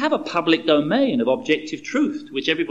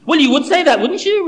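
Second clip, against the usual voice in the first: higher, louder jeering comeback; angry retort; 13 semitones higher, 8 dB louder than usual. Acted. John retorting to Bill over the disputed goal, jeering. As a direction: throw it back at your mate. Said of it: "retorted John".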